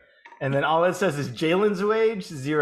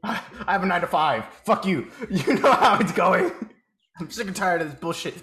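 mock cynical rant. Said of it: "You're like".

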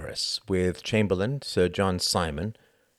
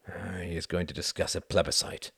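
softer, gloomy resignation; a defeated president, gloomy and softer; 2 semitones lower, 6 dB quieter than usual. Acted. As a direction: sink back and say it gloomily. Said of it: "said Bennis gloomily".

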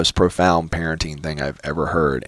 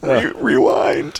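slow rewind; 7 semitones higher, much slower than usual. Acted. Mock rewind.

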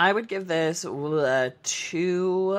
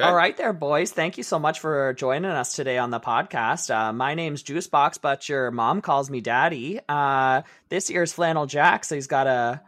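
Canadian hockey guy. Pretend. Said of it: "That one's straight from Shoresy".

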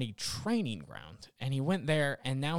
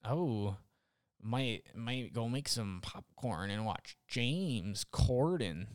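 mock fan; 5 semitones lower, 6 dB quieter, slower than usual. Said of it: "who waits up and they're like".

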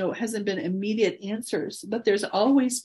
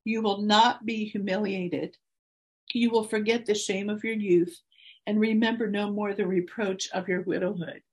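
emotional scripture reading. Real, not acted. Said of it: "I'm probably gonna get emotional".

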